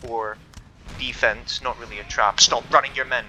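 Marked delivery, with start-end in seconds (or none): 2.4-3.2 shout. Real, not acted. Shouting orders at fleeing troops.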